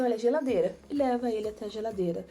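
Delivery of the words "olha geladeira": mother teaching a word. Shown as a demonstration. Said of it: "fala assim".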